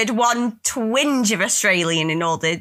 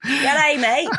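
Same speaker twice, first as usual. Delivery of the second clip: mock Australian accent; 2 semitones higher than usual. Mock Australian greeting after accent teasing.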